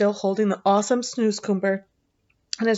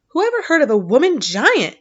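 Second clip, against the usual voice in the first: giant shouting it out louder and higher; shouted; 6 semitones higher, 6 dB louder than usual. A narrator's reading. Giant shouts at Sophie, loud and high. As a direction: bellow the question at her. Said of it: "shouted the B F G".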